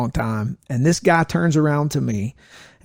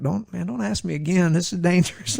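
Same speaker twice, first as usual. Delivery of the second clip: higher-pitched, exasperated warning; retold irritation; 5 semitones higher than usual. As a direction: warn him off with mild irritation. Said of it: "So I'm getting irritated".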